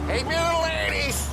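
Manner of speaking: put-on high drunken shout of glee; drunk yelling. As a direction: bellow it, drunk and eager. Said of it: "you're drunk".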